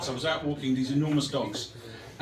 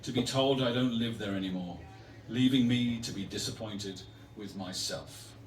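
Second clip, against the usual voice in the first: measured poetry recital, falling away at line ends; poem reading. Acted. Poet reading a poem to an audience, measured recital.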